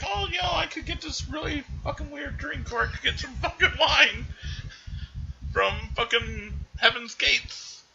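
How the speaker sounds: very high, silly put-on voice; Clarence ordering drinks. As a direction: squeak out a goofy angel's drink order.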